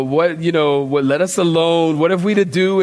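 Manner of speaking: mild, even Bible reading; nice reading. Shown as a demonstration. Preacher shows how congregations read the demon's words, nice plain reading. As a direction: read the verse politely, without drama. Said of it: "we read it all nice".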